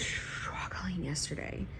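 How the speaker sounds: confiding whisper. Real, not acted. Vlogger confiding to viewers about a hard day, whispering. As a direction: lean in and whisper the confession.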